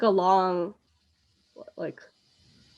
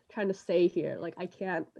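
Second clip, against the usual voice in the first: trailing off; 6 dB quieter than usual. Real, not acted. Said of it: "articulate it".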